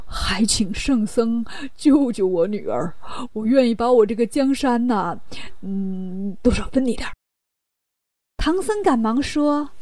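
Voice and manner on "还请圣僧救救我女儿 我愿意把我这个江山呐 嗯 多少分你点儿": lightly acted king, hesitant over the offer; imploring king. King begs the monk to save his daughter, imploring then hedging.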